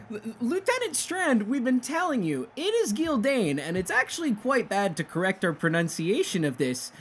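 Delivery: very high twin soldier voice; identical twin voice. Acted. Other twin to Lieutenant Strand, high insistent protest. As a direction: pipe up high, insisting like his brother. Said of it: "in the exact same voice".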